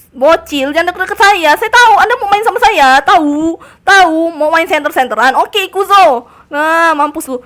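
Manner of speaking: loud, worked-up challenge; heated gamer yelling at an opponent; combative shouting. Real, not acted. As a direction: shout the enemy away. Taunting attacker in game.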